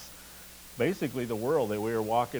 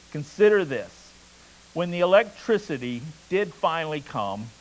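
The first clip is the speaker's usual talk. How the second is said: measured read-aloud with deliberate pauses; story narration. A narrator's reading. Preacher reading a novel to his congregation, story narration.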